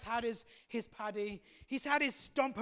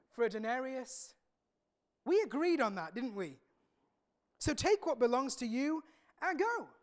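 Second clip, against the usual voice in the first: calm master; 3 dB louder than usual. Acted. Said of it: "He's calm".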